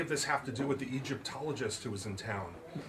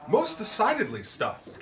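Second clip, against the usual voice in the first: higher, slow, stressed most; a grand theatrical lady's entrance; sonorous woman; 9 semitones higher, 4 dB louder than usual. Acted. Miss Turpin to the visitors, sonorous and grand. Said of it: "came a sonorous voice".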